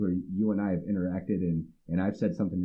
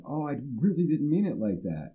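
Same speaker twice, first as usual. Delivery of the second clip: high mock apology; 7 semitones higher than usual. Other person apologizing.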